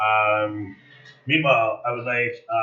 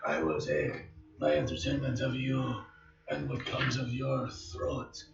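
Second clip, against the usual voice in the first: Strahd's threat; 8 dB quieter than usual. Acted.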